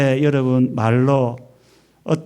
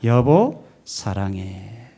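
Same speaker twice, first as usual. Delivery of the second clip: tender "honey, I love you"; 3 semitones lower, much slower than usual. Shown as a demonstration. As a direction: let the second word melt into a hush. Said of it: "꼭 껴안아주면서 말하고요".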